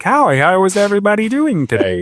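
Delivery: high, bright puppet voice; Muppet voice. Retold or imitated. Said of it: "feeling like I was a Muppet".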